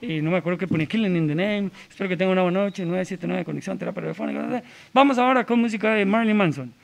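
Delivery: soft, understated rookie DJ link; radio host patter. Retold or imitated. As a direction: introduce songs like a novice radio host. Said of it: "me echo la hablada".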